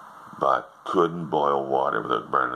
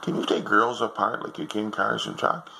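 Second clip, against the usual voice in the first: put-on higher kid's voice, earnest; little boy; 7 semitones higher than usual. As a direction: ask it like a curious child. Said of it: "a little boy come in".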